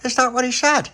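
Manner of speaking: high, sharp disbelief; can't believe it; indignant surprise. Acted. Little pappy reacting to the guard's words, shocked and high. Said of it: "little pappy went".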